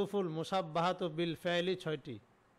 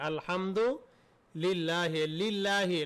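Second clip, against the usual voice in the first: slow drawn out; much slower than usual. Shown as a demonstration. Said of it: "যেমন আলহামদুলিল্লাহি".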